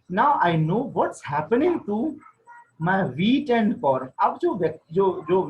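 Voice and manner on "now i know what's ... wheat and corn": slow, deliberate reading of the English text; slow story reading. A narrator's reading. Teacher reading the wife's line slowly aloud. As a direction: read each word out slowly to the class.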